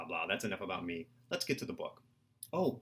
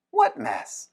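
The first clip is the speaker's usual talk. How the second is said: much higher, louder mock-innocent question; innocent surprise; 9 semitones higher, 7 dB louder than usual. Anna answering William's complaint, high mock-innocent surprise. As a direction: play dumb with high surprise.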